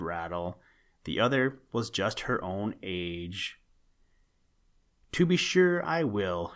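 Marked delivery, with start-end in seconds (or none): 5.1-6.5 high, bright-eyed eager reply; a young snake eagerly accepting two suitors; eager cry. A narrator's reading. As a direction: jump at the offer with delight. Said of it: "she cried".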